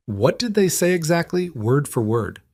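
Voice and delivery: high-pitched, insistent demand falling at the end; mildly commanding, starting high. A narrator's reading. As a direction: demand an exact answer. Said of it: "The command in his voice made her bristle".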